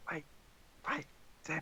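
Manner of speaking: whispering. Voicing Umbra calling after Tim as he runs: whispering. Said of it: "Are you whispering?".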